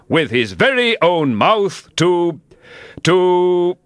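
high, self-pleased egg voice; smug Humpty Dumpty. A narrator's reading. Humpty Dumpty smugly teasing Alice, high voice. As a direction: crow over surprising her.

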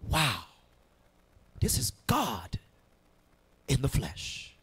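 soft, halting wonder with long pauses; hushed awe. Acted. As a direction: let the realization sink in quietly. Voices Thomas recognizing God, hushed.

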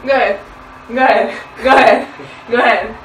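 loud, pushy go ahead, over and over; insistent loud demand. Real, not acted. Girlfriend pressing boyfriend to confess, loud insistent demand.

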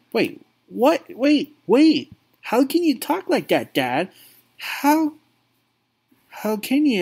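high, stunned disbelief; shocked son. Acted. Son stunned by his father's cruelty, high disbelief. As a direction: catch your breath at what Dad just said.

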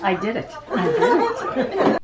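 put-on high, slow triumphant little-kid voice; mock toddler brag, drawn out; imitating toddler. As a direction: play the proud toddler. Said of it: "She goes".

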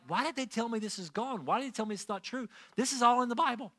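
retold indignation. New believer mad at being lied to, retold indignation. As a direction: imitate your own indignant questioning. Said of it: "I was mad. I'm like".

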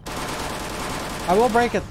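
drawn-out threat; slow menacing. Acted. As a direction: stretch every word out.

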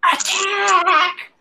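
very high, screeched war cry; goblin battle cry. Acted. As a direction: screech the order to charge. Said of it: "you hear in Goblin".

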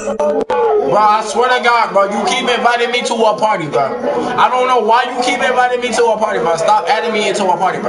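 loud exasperated ranting; annoyed rant. Real, not acted. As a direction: vent at the spam invites. Fed up with invites, ranting.

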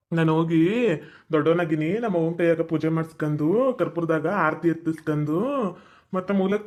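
a hint of a village elder explaining a ritual; imitating elders. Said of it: "ಅಂದ್ರು".

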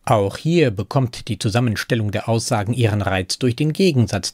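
ordinary talk

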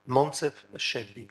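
slowed for an audience member taking the name down; slow clear repeat. Shown as a demonstration. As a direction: repeat the name slowly so it can be noted. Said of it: "Quel est l'éditeur".

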